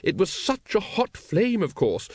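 high-pitched, emphatic lady's voice; high, well-meaning expert chatter; enlightened lady. A narrator's reading. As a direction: gush the explanation as it dawns on you. Lady Ramkin explains her realisation.

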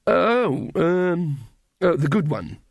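hesitate, then grab at an answer; mind racing. A narrator's reading. Magrat asked which godmother she is, flustered. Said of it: "Magrat's mind raced".

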